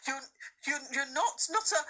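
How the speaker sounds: stammering, halting question; nervous stuttering girl; shaky voice. A narrator's reading. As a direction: falter over the words. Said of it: "in a shaky voice".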